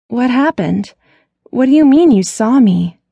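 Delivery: suddenly wide awake and worried; alarmed. Acted. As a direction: sister presses her brother for answers. Alarmed by brother's sighting.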